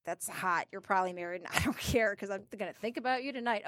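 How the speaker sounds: very soft, low, with a small laugh; low flirty aside. Retold or imitated. Retelling her flirting with the cowboy, low aside. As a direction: drop right down as if confessing.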